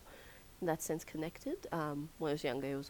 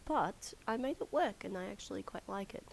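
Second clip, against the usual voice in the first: croaky voice; 3 semitones higher than usual. Real, not acted. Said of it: "Excuse the croaky voice".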